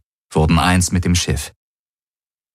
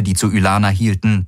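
ordinary delivery, nothing marked

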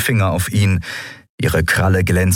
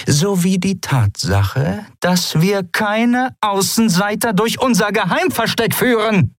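slow, much higher, cutting anger; angry captain. Acted. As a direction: bite each word out. Captain slams fist, angry. (Kapitänin wütend, hämmert auf den Tisch)

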